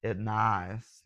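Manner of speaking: put-on lightly done comic foreign accent; a hint of a goofy, broken-English accent impression; Borat. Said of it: "that's my Borat impression".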